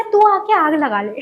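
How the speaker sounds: loud, heated retort to a classmate; retold angry outburst. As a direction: snap it back at her, fired up. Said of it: "मेरे को गुस्सा आया".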